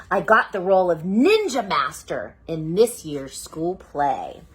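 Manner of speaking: slow, expressive reading; storytelling to children. Acted. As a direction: read it like a bedtime book. Reading child narrator slowly.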